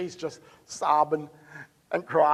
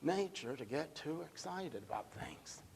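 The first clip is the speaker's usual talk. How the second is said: softer, shrugging excuse that fades away; dismissive quoted excuse, dropping to almost nothing; mock indifference; 17 dB quieter than usual. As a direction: mimic a lukewarm believer brushing it off. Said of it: "You're not gonna say".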